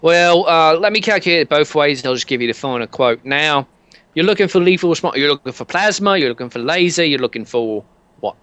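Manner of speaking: lightly held British salesman voice; British accent. Acted. Sammy Fraser selling a security package in a British accent. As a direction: pitch the package like a Brit salesman. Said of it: "can't do this accent very well".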